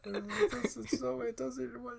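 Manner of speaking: very high, very soft warbling voice; glitchy distorted voice. Pretend. Summoning Wi-Fi, a warbled glitching squeak. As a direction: sound like a breaking signal.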